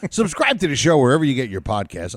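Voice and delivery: smooth radio-host read; radio announcer voice. Acted. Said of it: "I just sound like a radio guy".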